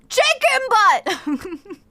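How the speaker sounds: high, loud, slow laughing punchline; silly punchline. Pretend. Streamer pranking her friend, slow laughing punchline. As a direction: drag out the joke gleefully.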